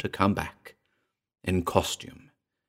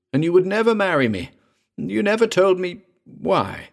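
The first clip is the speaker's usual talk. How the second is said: high-pitched, raised reproach; anguished cry; 11 semitones higher, 4 dB louder than usual. A narrator's reading. Patou reproaching Myra for never marrying him, crying out. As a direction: cry out in hurt, voice climbing high. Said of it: "cried Patou".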